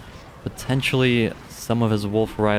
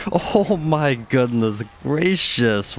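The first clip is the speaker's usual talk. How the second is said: slow, drawn-out astonishment; amazed exclamation; 4 semitones higher, much slower than usual. Real, not acted. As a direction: savour the shock of what just happened. Dramatic end of the fight.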